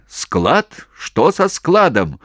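plain reading voice

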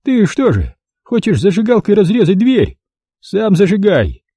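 high squeaky man indignant; indignant squeak. A narrator's reading. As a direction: throw it back at him.

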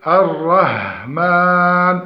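drawn-out الرحمن with the faulty sound, as a mistake to avoid; mispronounced recitation. Shown as a demonstration. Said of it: "فبدل أن نقول". (تلاوة بطيئة بنطق خاطئ لكلمة الرحمن)

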